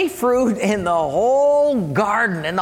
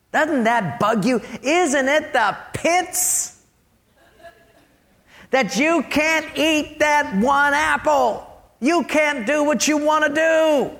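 devil goading, higher and drawn out; tempting devil; 5 semitones higher than usual. Acted. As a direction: needle them like a tempter, pitch climbing. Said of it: "And the devil says".

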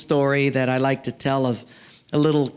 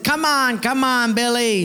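high-pitched coaxing call; playful acted pleading; 7 semitones higher than usual. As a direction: urge a reluctant friend up. Everyone urges Billy on.

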